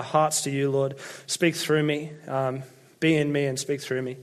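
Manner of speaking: gentle pastor's prayer, fading to a hushed amen. Acted. Leads the congregation in prayer.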